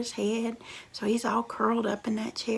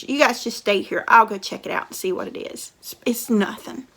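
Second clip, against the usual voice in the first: reassuring brother; 11 dB louder, faster than usual. Acted. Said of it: "Tells his sisters".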